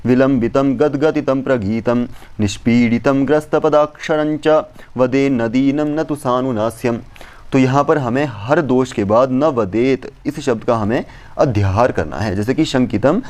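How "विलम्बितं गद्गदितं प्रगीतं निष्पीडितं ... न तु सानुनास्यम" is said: measured Sanskrit verse chant; verse recitation. Acted. Teacher reciting the verse to students, measured chant.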